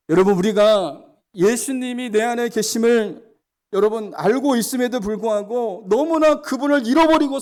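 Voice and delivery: full-force sermon voice; fervent preaching. Acted. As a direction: press the congregation hard from the pulpit.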